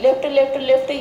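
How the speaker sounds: quick left left left; fast repetition. Shown as a demonstration. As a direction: say it rapidly for the drill. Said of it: "जल्दी जल्दी बोलना है". (जल्दी जल्दी बोलना)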